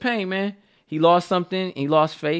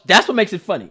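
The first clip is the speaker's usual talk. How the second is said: ordinary talk, nothing marked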